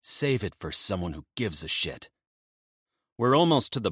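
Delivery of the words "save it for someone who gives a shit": cold. Acted. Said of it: "Rio says coldly".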